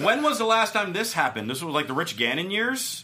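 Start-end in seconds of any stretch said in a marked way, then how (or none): 0.0-1.5 laughing the question out, higher; amused disbelief with a laugh. Real, not acted. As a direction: laughs at how long it's been, then asks. Amused by the Raiders leading.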